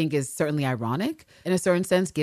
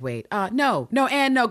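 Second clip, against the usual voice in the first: flustered protest; 8 semitones higher, 5 dB louder, slower than usual. Acted. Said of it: "immediately Ann Walker's just like".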